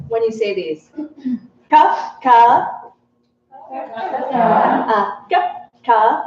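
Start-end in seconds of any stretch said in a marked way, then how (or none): 1.7-2.7 "Ka, ka" with the tongue curled back to the hard palate; retroflex ka. Shown as a demonstration. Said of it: "you've got your retroflex tongue hitting the hard palate".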